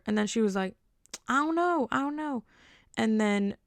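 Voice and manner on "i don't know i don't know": higher, flustered girl imitation; mock high flustered voice; girl's high voice. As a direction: play her panicking up high. Girl voiced in retold story.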